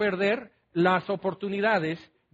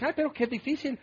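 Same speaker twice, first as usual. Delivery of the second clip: mock complaining; 6 semitones higher, faster than usual. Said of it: "Y dices".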